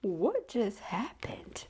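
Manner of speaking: slow breathless whisper; whispered in shock while laughing; stunned whisper. Real, not acted. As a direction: whisper it in disbelief, barely voiced.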